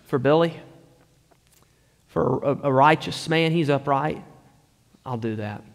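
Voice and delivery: softly voiced, halting acceptance; hesitant consent. Dying driver agreeing to give heart to Billy, lightly acted hesitance. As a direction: trail down quietly, pausing as if weighing it.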